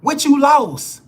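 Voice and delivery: loud, slow, high challenge; incredulous shout. Real, not acted. Pressing a panicking viewer hard. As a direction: demand it, drawn out.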